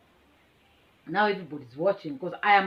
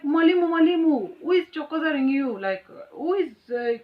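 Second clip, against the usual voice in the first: pupils calling teacher; 7 semitones higher, 5 dB louder than usual. Retold or imitated. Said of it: "So they're like".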